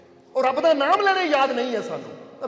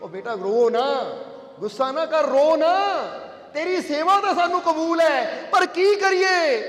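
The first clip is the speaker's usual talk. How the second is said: consoling saint; 3 semitones higher, 3 dB louder than usual. Retold or imitated. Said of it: "ਉਸ ਵੇਲੇ ਵਾਇਜ਼ੀਦ ਕਹਿੰਦੇ".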